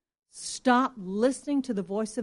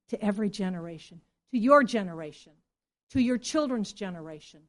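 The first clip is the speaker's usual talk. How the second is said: fast echo; 2 semitones lower than usual. Acted. Preacher repeating for emphasis.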